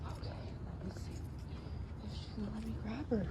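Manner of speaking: whispering. Real, not acted. Whispering near the cat.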